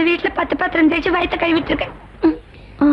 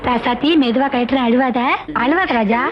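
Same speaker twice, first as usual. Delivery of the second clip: gentle coaxing, pitched lower; soothing a child; 3 semitones lower than usual. Acted. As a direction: coax a crying child tenderly.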